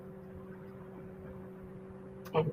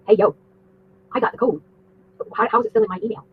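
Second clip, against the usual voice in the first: higher-pitched, lightly urgent imagined message; a touch of pretend alarm, pitched up; mock feverish; 4 semitones higher than usual. Imagining alerting the account's owner about a code, mildly feverish. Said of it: "I would be feverishly reaching out".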